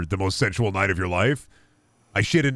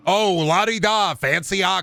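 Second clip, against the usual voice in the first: higher, slow la-di-da sneer; mock posh sneer; 8 semitones higher than usual. Husband to wife, mocking fancy cutting board users.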